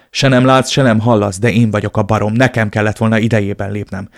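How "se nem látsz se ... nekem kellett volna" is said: louder, exasperated scolding; scolding friend. Acted. Tony scolds his lovestruck friend, exasperated and loud. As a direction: tear into him for being blind.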